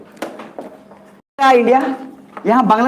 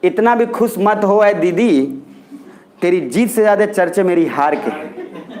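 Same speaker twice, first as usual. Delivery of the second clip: lightly voiced Modi, slow and teasing; a hint of Modi, teasing Didi slowly; mock Modi quote, slow; 3 semitones lower, slower than usual. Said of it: "क्या बोल रहे हैं मोदी जी". (मोदी जी की हल्की नकल, धीमे चिढ़ाते हुए)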